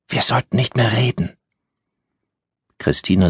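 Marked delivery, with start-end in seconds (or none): 0.1-1.4 put-on high child voice, warning; a scared girl telling her to stop talking; timid child's voice; hushed little girl. A narrator's reading. Roommate girl whispers back.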